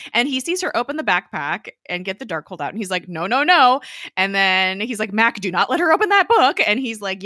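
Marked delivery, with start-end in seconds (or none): 3.1-3.8 urgent raised no no no; retold alarmed no. Coulson seeing the Darkhold, urgent and loud. 5.1-6.6 higher, louder urgent warning; retold yelling. Coulson yelling at Mac to stop her, loud. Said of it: "yelling at him".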